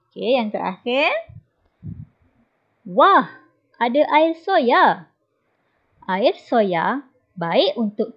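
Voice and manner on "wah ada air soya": higher, louder, delighted; light up at the drink; delighted wah. Acted. Boy thrilled to see soy milk at the table.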